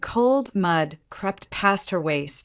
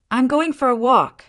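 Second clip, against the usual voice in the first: raised, higher voice calling back over her shoulder; 7 semitones higher, 6 dB louder than usual. A narrator's reading. Wife calling back to her husband as she heads out, raised voice. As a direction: call it out as you leave the room. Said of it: "she called over her shoulder".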